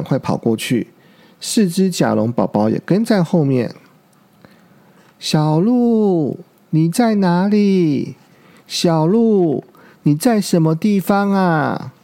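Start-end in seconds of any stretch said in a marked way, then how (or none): 5.2-11.9 crying out. Acted. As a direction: call for the lost child, voice straining. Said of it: "霸王龙哭喊着". (焦急地高声呼喊)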